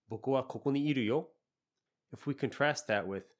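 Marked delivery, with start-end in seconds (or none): 0.1-1.3 lively, with emotion; emphatic. Shown as a demonstration. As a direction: say it with feeling. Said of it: "yo really adds a strong emotion".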